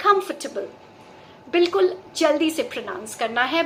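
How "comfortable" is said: comfortable said quick as KUM-fuh-tuh-bul, no stressed sound; quick, even comfortable; repeat after me. Shown as a demonstration. Teacher asking students to repeat, quick even comfortable. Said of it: "मेरे साथ फिर से बोलिए".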